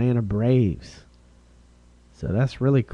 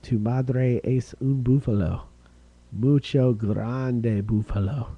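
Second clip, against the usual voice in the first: mock Spanish. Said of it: "My Spanish is pretty good".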